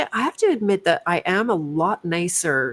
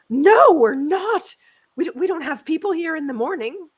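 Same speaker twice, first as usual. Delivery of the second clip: flustered teller; 11 semitones higher, 5 dB louder than usual. Retold or imitated. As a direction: play the teller caught off guard and defensive. Teller answers, voiced high.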